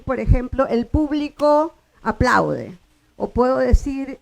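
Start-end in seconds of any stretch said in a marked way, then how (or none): 0.7-2.8 público stressed on the first syllable, PÚ-blico, said slowly; slow teaching demo, PÚ-blico. Shown as a demonstration. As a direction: lean on the PÚ of público and draw it out. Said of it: "Yo puedo decir público".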